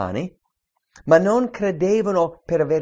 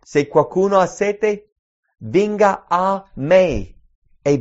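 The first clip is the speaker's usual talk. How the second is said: scripture reading; 6 dB louder than usual. Acted. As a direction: call out the invitation. Preacher reads John seven aloud.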